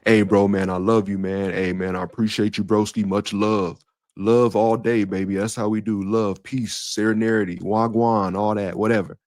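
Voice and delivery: breezy casual bro affection; softened bro talk. Retold or imitated. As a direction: toss it off, laid back. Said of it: "sometimes as men, we soften it".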